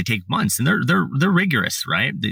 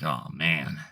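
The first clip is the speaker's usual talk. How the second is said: deflated sigh; 7 semitones lower, 9 dB quieter than usual. Retold or imitated. His deflated reaction retold.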